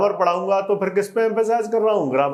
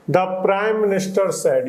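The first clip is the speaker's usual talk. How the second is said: slow dictation reading; much slower than usual. Shown as a demonstration. Slow reading of the English text.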